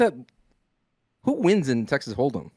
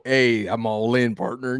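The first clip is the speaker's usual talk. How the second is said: cowboy drawl; 2 semitones lower than usual. Pretend. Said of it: "I go".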